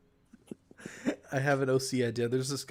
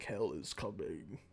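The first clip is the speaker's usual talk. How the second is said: ominous warning; 8 semitones lower, 11 dB quieter, slower than usual. Retold or imitated. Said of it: "Riger tells him, like".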